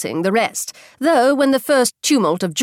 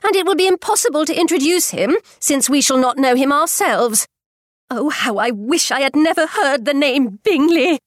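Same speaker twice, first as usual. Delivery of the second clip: higher, fretting mother's voice; agitated mother; 6 semitones higher than usual. A narrator's reading. Mother lamenting they cannot meet Bingley, high and fretful. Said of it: "cried her mother".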